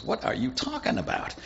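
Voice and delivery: high, breathless panicked gasp; the king panics, voice jumping way up; alarmed king cries out in disbelief; freaking out. Acted. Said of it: "And he's freaking out".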